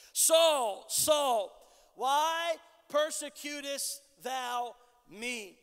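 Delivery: slow, solemn divine summons, lightly acted; voice from heaven. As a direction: call out the name, then draw out the question. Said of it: "a voice that cries out from heaven".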